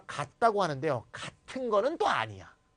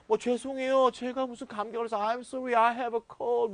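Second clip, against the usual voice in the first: mock apologetic excuse; 5 semitones higher than usual. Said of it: "구구절절히 설명하는데".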